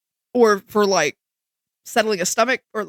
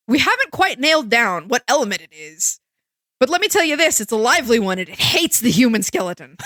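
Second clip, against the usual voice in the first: Cave Johnson. Retold or imitated. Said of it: "I instantly had Cave Johnson's voice in my head".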